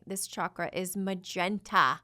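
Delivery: slow, emphatic, excited proclamation; mildly yelled, stretched-out reveal; excited loud announcement. Real, not acted. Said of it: "I know I yelled that really loud".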